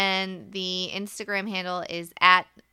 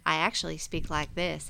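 Virginia Southern accent; 4 semitones lower, 3 dB quieter than usual. Shown as a demonstration. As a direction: let your Virginia accent show. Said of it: "I'm originally from Virginia".

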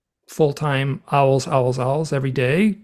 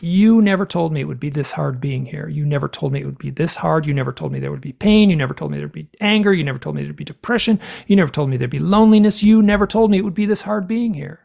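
toned-down mock yelling, building toward the end; restrained retold outburst. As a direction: pile up the accusations, held back. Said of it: "I'm saying it very nicely here".

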